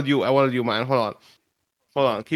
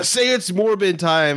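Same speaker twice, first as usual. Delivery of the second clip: fan voice; 5 semitones higher, slower than usual. Retold or imitated. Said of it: "like, uh".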